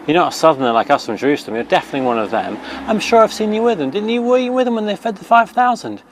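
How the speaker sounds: high, quick and eager, lightly voiced crowd; a touch of a gossiping crowd; accusing crowd. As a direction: pile on like bystanders sure of it. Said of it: "looked and went".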